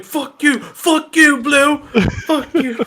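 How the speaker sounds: high-pitched mock yelling; mock John Oliver. Host gloating as his marble loses, high mock yell. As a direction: squeal it like a gloating bettor. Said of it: "He's like".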